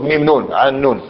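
من spelled out as ميم نون; name the letters, ميم then نون. Shown as a demonstration. Teacher mimicking a wrong reading of particles, spelled-out pronunciation. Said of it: "ما يجيش واحد يقول لك".

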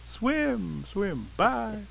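high, drawn-out call, no longer shouted; high farewell call at normal volume. A narrator's reading. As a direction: send them off in a fading singsong. Otter swims out of sight.

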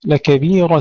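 لكبيرة recited with thin T after heavy R; light ta. Shown as a demonstration. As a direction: keep the final tun of لكبيرة light. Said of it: "ترقيق التاء بمجاورة الراء المفخمة".

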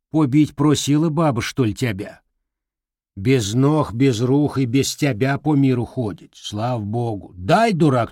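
scolding granny. Acted. Grandmother scolding.

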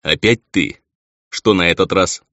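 lightly voiced weary lord; a hint of a bored nobleman; low male voice. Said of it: "знакомый низкий голос".

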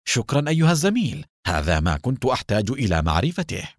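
quick, lightly sarcastic thanks; mocking. Disguised Adham mocks Baruch, sarcastic. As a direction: toss off the thanks with a sneer. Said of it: "وبلهجة ساخرة".

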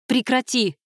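furious shout. A narrator's reading. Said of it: "в ярости крикнула Кайра".

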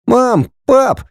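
put-on high child's call; boy calls parents, excited; little boy calling. A narrator's reading. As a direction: call out to mum and dad.

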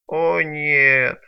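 despairing groan of a wretch; moaning. Acted. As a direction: moan it out, crushed. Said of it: "простонал бедняга". (простонал в отчаянии)

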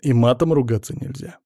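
usual speaking voice

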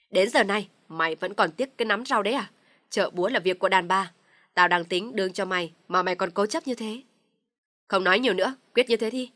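loud, harsh scolding shout; angry scolding. Acted. Father-in-law loudly scolds his son and ends the debate. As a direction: cut off all argument.

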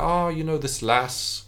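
a hint of a Scottish ladies' man; lightly put-on Scottish accent saying "lass"; faint Scottish brogue. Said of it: "he's always talking about".

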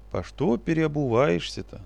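slow and soulful, the forest spirit asks; heartfelt. Acted. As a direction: ask gently, with a touch of sly warmth. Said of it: "задушевно спросил он Кудыку".

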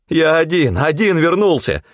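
high manic cry through bared teeth; crazed grin. A narrator's reading. Hunter grinning madly at his captors, high crazed cry. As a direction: sound half mad. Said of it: "ощерился я безумно".

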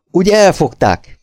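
magas hangú, mérsékelt felkiáltás; kiálts fel kérdőn, magas hangon. A narrator's reading. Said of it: "kiáltott a lány". (visszafogott, magas felkiáltás)

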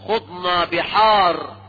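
grave drawn-out quote of the boast; slow solemn quote. Retold or imitated. Preacher quotes the Sufi claim slowly, straight-faced. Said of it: "فغلاة المتصوفة يقولون".

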